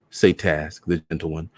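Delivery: usual speaking voice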